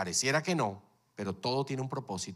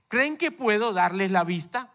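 Jesus asking; 7 semitones higher, 6 dB louder than usual. Acted.

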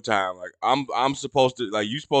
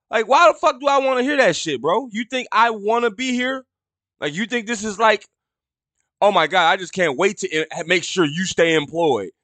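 exasperated rant; 6 semitones higher than usual. Real, not acted. Ranting about staff comments.

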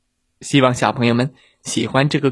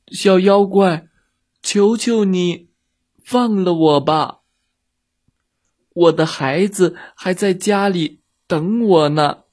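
small high plea from inside a belly; pleading elephant; 4 semitones higher than usual. Acted. Elephant begs the little monster from inside his belly, pleading. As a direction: beg to be set free for your child. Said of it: "大象在他的肚子里说道".

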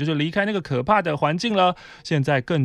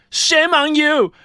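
mock scornful shaming; 8 dB louder, much slower than usual. Coworker shaming her English.

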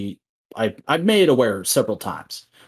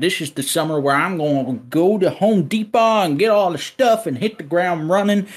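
put-on country accent; 6 semitones higher than usual. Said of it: "this accent now".

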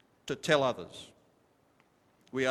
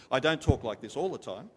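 raised voice, stress on all; lifted preaching voice; 3 dB louder than usual. Shown as a demonstration. Preacher showing the congregation his pulpit voice, raised. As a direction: lift it up like from the pulpit. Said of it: "I lift up my voice when I preach".

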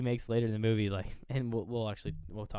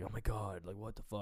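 mock shock; 7 dB quieter than usual.

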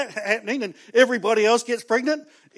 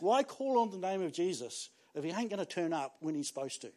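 disappointed voice; 4 dB quieter than usual. Retold or imitated. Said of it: "Where you go".

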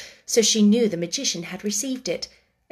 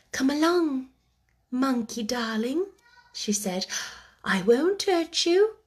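gently coaxing, rising and kind; 4 semitones higher than usual. Acted. Sarah coaxing the shivering monkey in, gentle and tender. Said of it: "speaking in a coaxing voice".

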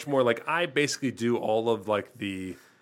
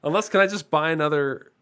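lightly raised customer voice; silly high voice; 4 semitones higher, 4 dB louder than usual. Pretend. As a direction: play a ditzy customer. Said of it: "I don't sound like this".

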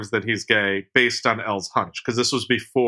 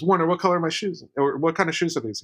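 high, fast quoted question; quick mock question; 5 semitones higher, faster than usual. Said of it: "And then she says".

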